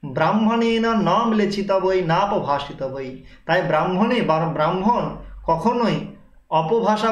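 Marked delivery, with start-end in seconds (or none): 0.0-3.1 Sanskrit recitation. Shown as a demonstration. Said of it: "Patanjali বলছেন".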